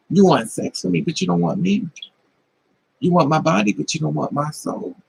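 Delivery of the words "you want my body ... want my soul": usual speaking voice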